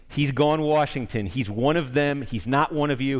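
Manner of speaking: mild Texas drawl. Retold or imitated. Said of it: "He's saying it with the Texas drawl".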